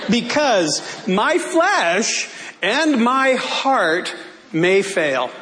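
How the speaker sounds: slow and weighty, drawn out; sermon cadence, slowed; preaching scripture. Acted. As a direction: lay each word down like a verse.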